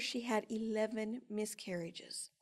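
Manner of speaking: slow soft whisper of a painful fact; hushed, slow. Real, not acted. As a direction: let it drop to a whisper, slowly. Tells of sister's miscarriages.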